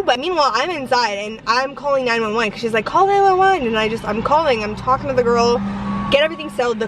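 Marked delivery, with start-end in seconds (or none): 2.9-3.6 high-pitched mock panicked command; retold urgent order. Mom tells daughter to call police, retold urgent order. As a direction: imitate an urgent cry for help, pitched way up.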